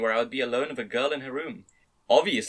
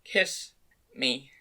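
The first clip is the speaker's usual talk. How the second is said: pleading. A narrator's reading. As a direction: ask for it as a plea. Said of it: "looked at me pleadingly".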